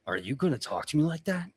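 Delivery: lightly voiced orc warrior confronting someone; mildly menacing, quick question; confrontational orc boss. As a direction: challenge them, with a touch of threat. Orc boss challenging underling.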